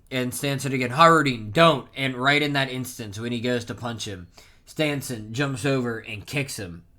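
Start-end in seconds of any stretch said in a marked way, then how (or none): 0.9-1.9 urgent warning. Retold or imitated. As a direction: call out to halt someone. Acted warning to stop a punch.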